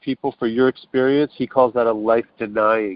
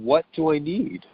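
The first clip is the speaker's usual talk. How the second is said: asking oneself; 4 semitones higher than usual. Retold or imitated. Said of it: "looking at that needs list and going".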